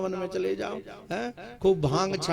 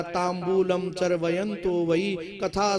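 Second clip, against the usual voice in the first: verse recitation; slower than usual. Acted.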